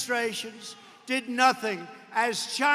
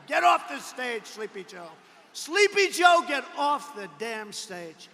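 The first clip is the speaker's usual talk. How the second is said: mock shouting crowd; 5 dB louder than usual. Crowd telling Joe to leave.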